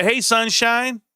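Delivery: imitated endearment, high and slow; sweet Southern greeting. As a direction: draw out a mock-sweet hello. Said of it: "they talk a little sweet".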